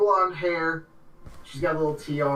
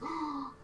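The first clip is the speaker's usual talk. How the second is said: soft, high intake of breath; delighted gasp; 13 semitones higher, 12 dB quieter than usual. Acted. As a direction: gasp at seeing a friend. Gloria greets the next friend.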